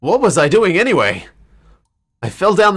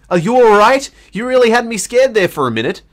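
higher, louder worried ask; worried Satoshi; 6 semitones higher, 4 dB louder than usual. Acted. Satoshi asking Naomi if she's all right, worried and higher. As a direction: check on her anxiously.

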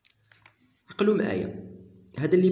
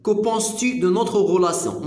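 very slow, careful French read; slow French model; 2 semitones higher, 3 dB louder, much slower than usual. Shown as a demonstration. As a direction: lay out each word for students. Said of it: "كو بونس تو دو".

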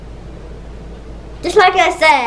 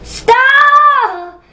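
seething anger; 11 semitones higher, 3 dB louder than usual. Real, not acted. Snapping at baby brother.

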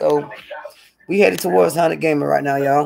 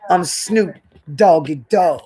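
voicing the dog; slower than usual.

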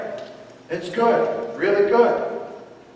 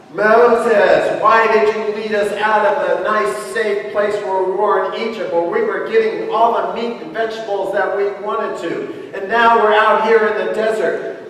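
louder, mock-whiny plea to Moses; whining complaint; 3 dB louder than usual. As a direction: whine at Moses like a grumbling crowd. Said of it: "whining and complaining".

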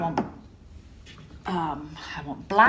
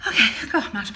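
laughing and a bit louder on her return; breathless laugh; 3 semitones higher, 6 dB louder, much faster than usual. Real, not acted. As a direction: let a laugh slip, out of breath. Back, out of breath.

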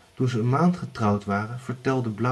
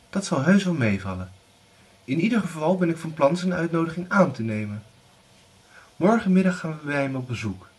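higher, firm mother's voice; determined mother; 6 semitones higher, 3 dB louder, faster than usual. Acted. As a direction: settle the matter. Widow insists on visiting.

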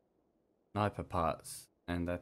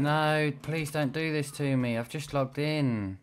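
higher, slow desperate plea; pleading; 6 semitones higher, slower than usual. Real, not acted. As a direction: beg the game to spare you. Begging the game not to kill him.

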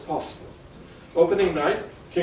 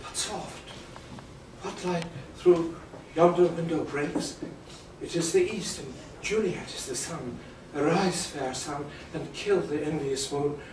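romantic verse recitation. Acted. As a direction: speak it like a lover gazing upward. Recites Romeo's balcony speech.

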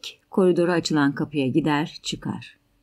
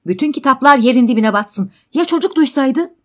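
loud, high, exasperated cursing; curse, then scold in raised pitch; heated quarrelling voice; angry outburst; 6 semitones higher, 7 dB louder than usual. Acted.

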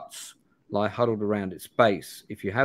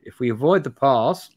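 Bannerton's caution; 4 semitones higher, 6 dB louder than usual. Acted. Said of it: "he says".

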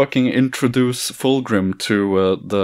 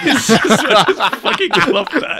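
laughing; 11 semitones higher, 4 dB louder than usual. Real, not acted. Laughing at the story.

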